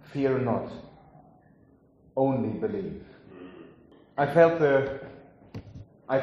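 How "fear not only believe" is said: preacher gently quoting Jesus to Jairus; gentle quote. Acted. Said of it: "And to Jairus ... he said".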